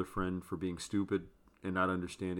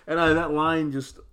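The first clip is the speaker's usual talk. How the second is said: laughing while talking; 9 semitones higher, 12 dB louder than usual. Real, not acted. Still laughing.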